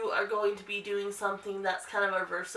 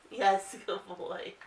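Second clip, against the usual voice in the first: slow, much softer praise; 3 dB quieter, slower than usual. Real, not acted. Owner praising her nervous dog, slow soft praise. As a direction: draw the praise out gently.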